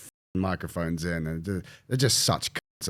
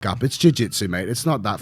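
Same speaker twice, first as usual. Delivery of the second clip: retold telling-off. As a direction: reenact blowing up at him, half joking. Retelling telling official off.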